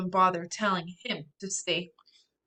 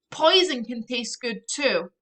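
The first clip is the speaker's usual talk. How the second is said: arguing; 4 semitones higher, 5 dB louder than usual. Acted. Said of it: "I argue".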